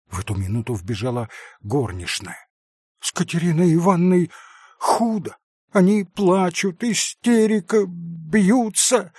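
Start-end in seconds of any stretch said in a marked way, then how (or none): 3.0-9.1 breathless alarm. Acted. Maid runs in with news.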